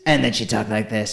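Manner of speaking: Sugarcane. Retold or imitated. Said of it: "weird call and response".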